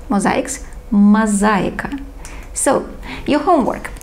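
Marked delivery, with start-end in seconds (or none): 0.9-2.0 Мозаика repeated slowly for the class; slow model reading. Shown as a demonstration. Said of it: "And the last one".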